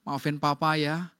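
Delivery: low-pitched, subdued acted apology; acted contrite husband, pitched well down; apologetic husband. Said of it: "suaminya bilang gini".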